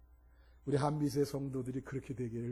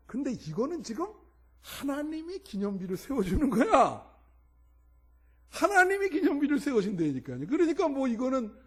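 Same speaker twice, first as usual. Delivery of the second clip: high, loud preaching cry; raised pulpit voice; emphatic preaching; 10 semitones higher, 6 dB louder than usual. Real, not acted. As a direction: drive the point home to the congregation, high and forceful. Preacher rises to full force.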